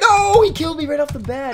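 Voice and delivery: high outraged shriek; shrieking protest. Real, not acted. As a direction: wail at being killed instantly. Killed at once, shrieking.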